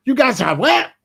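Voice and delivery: a mother who can't believe her ears; incredulous mother. Retold or imitated. Mother disbelieving the purchase.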